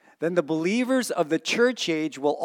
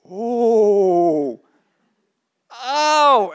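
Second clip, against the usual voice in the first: mock relief; 8 semitones higher, 10 dB louder than usual. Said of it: "Me, I'm like".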